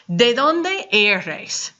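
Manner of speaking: slow, clear Spanish; careful teacher model; slow model question. Shown as a demonstration. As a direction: spell it out slowly for the class. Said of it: "Now we have a new question word".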